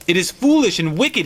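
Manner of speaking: a touch of nervous refusal; faltering. Acted. Husband resisting his wife's demand, mildly faltering. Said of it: "he faltered".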